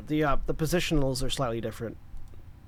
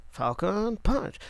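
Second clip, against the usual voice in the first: tag; 5 semitones higher, much slower than usual. Acted. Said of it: "a character in D and D that does falcon punches".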